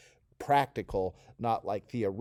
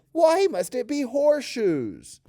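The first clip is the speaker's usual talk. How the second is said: much higher, louder whiny why; whiny Taryn; 12 semitones higher, 8 dB louder, slower than usual. Shown as a demonstration. Teacher voicing Taryn whining about horseshoes. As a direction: whine it like a fed-up kid. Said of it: "take your voice up a little bit and elongate it".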